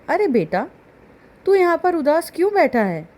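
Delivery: a dad coaxing his gloomy son; fond father asking. A narrator's reading. Father asks sad Billu why he sits there, gently concerned.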